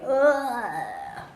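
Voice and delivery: long drawn-out "ugh"; disgusted groan. A narrator's reading. Two children pouring cow manure, groaning in disgust. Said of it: "while both going".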